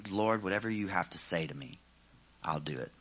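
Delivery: soft, low prayer of surrender; hushed, sincere address to the Lord; earnest prayer. Acted. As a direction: quietly pledge obedience to God. Models a surrendered prayer to God.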